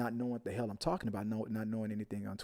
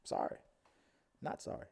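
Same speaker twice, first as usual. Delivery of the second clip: mock high voice; 8 semitones higher, 6 dB quieter than usual. Retelling what was said to him.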